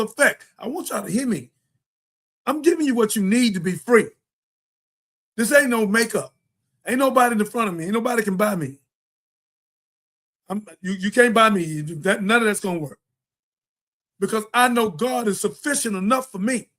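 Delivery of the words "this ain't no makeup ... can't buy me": ordinary delivery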